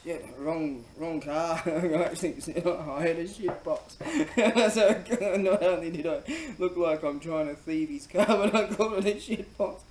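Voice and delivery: loud, high, breaking into laughter; laughing while talking. Real, not acted. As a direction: tell it while cracking up at yourself. Cracks up at own story.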